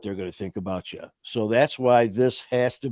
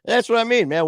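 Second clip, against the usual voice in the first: high, loud cry of preach; hype cheer; 8 semitones higher, 4 dB louder than usual. Real, not acted. Host cheering himself on after his speech, loud whoop. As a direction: whoop it like a church amen.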